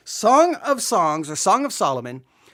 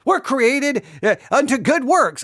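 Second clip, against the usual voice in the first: mocking imitation; 4 semitones higher than usual. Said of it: "And then he's like".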